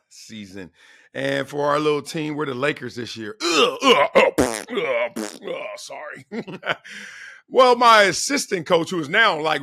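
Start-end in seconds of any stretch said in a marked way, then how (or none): 3.8-5.8 drawn-out ughs with puffed breaths; exaggerated groaning. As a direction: groan and puff, trailing down. Groans mid-sentence, then says sorry.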